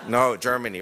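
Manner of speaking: laughing as he translates the German. Real, not acted. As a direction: laugh through the words.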